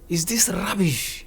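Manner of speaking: high, slow mock insult; sling it as an insult, mimicking him; imitated angry insult. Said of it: "he started insulting me".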